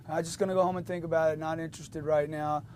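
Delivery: monotone, quick, indifferent brush-off; no emotion. Acted. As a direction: play a customer with zero emotion. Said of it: "no emotion from the customer or anger? Zero".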